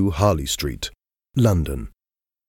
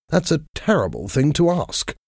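pitched up high in shock; shocked exclamation; 9 semitones higher than usual. A narrator's reading. Alan, shocked, refusing Dorian's request in a high exclamation. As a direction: recoil at the request, voice jumping up. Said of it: "he exclaimed".

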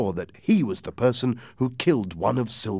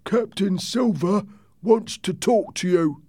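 pirate messenger; 12 semitones higher, 4 dB louder than usual. A narrator's reading. Pirate sailor under white flag.

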